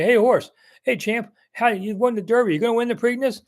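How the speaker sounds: playfully hollering at a horse; mock yell at a horse. Reporter imagines yelling questions at Derby horse, mock shout. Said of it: "I got to yell at him and say".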